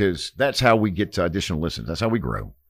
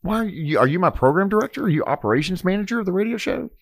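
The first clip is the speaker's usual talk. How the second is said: sarcastic; 10 semitones higher than usual. Retold or imitated. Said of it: "And I said".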